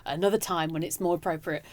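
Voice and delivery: soft murmur, keeping still; quiet inner thought. Retold or imitated. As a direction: think it quietly to yourself. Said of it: "I'm thinking".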